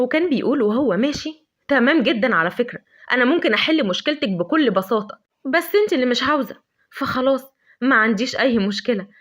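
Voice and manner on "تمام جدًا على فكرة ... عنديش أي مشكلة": mildly louder, irritated retort; annoyed. Acted. Adham walking off, mildly irritated retort to Lavender. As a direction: grumble while walking away. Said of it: "بغيظ".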